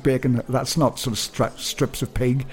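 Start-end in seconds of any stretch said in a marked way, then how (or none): 0.0-0.4 "bacon" for baking, Northern Irish vowel; Northern Irish accent. Shown as a demonstration. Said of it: "as I said in my Northern Ireland accent".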